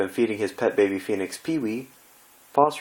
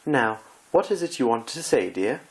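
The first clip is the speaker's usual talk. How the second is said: Rarity voice; 4 semitones higher than usual. Acted.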